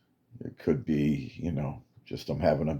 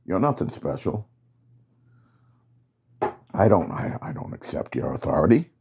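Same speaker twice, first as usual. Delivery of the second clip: defiant soldier; 4 semitones higher than usual. Acted. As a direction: push back hard at the commander. Soldier defies the commander.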